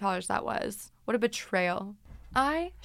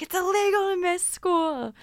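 higher, louder, slow mock mom; indignant mom; 9 semitones higher, 5 dB louder than usual. Mom telling the cops, indignant and loud. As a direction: insist like an outraged mom. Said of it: "She's like".

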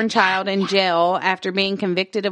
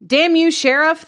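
put-on old man shout; 8 semitones higher, 4 dB louder than usual.

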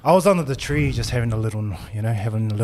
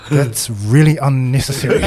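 dry mock disapproval; 6 dB louder than usual. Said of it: "I'm just like".

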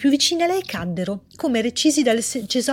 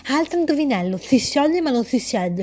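riddling voice. Acted. Voice poses riddle.

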